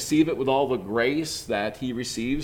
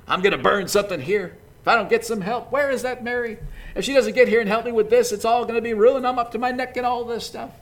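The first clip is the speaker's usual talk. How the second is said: frustrated grumbling; 7 semitones higher, 4 dB louder, faster than usual. Acted. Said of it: "hear her mumble things like".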